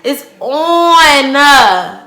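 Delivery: worked up. Retold or imitated. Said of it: "So now I'm mad".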